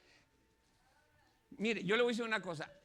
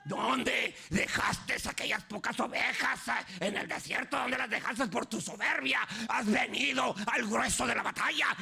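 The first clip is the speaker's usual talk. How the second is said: put-on scolding older brother; 4 dB louder than usual. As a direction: scold him like a jealous big brother. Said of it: "su hermano se para y viene y le dice". (hermano mayor que regaña)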